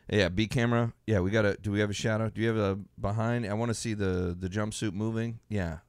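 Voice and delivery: low, businesslike director impression. Director checks camera angles in Video Village, low and matter-of-fact. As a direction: play a director earnestly calling camera shots. Acts out director calling shots.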